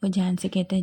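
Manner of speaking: ordinary delivery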